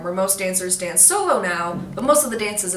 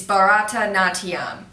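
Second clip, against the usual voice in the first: slower, spelled-out Bharatanatyam; careful repetition; 4 dB louder, slower than usual. Shown as a demonstration. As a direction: say Bharatanatyam slowly for whoever missed it. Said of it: "if you didn't catch that".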